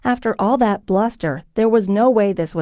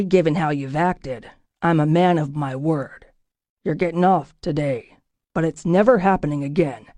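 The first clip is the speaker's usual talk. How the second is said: a gruff boss laying down the rules; stern captain; 2 semitones lower than usual. Acted. Captain warns the soldier.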